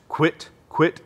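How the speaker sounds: short clipped quit syllables; duck quack, back of call. Shown as a demonstration. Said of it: "this is what it sounds like in the back of the call".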